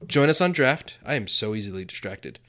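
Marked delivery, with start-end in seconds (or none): 0.1-1.0 ad read push. Acted. Sponsor plug after distraction.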